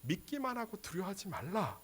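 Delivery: gentle acted voice of Jesus; hushed reassurance. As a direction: drop right down to a quiet, steady assurance. Voices Jesus calming the protesters.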